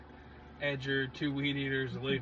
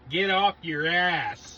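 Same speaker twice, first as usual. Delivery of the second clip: mock bark; 5 semitones higher, 10 dB louder, much slower than usual. Mock command to slackers.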